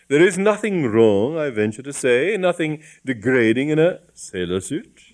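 pompous, aggrieved bishop voice; indignant bishop. Acted. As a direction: defend yourself with lofty pride. Bishop defends his costume.

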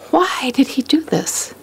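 slow, whispered question to oneself; whispered wondering. Retold or imitated. Devotee asking herself why, whispered wonder.

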